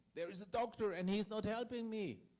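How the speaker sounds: very loud, high-pitched, all-out shouting. Retelling how a passenger on the plane shouted about a doctor: imitating a man shouting. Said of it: "he began shouting".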